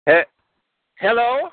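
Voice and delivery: put-on high Kazakh-accented Borat voice; broken-English Borat, Kazakh accent. Caller phones the radio hosts as Borat, Kazakh accent. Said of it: "my name is, uh, Borat".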